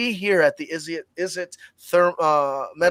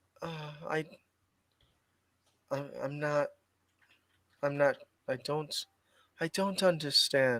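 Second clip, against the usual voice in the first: small, tiny, faint, very quiet, barely audible voice; 10 dB quieter than usual. Someone just told to act nice and polite answers in a little faint voice. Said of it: "you hear this little faint voice".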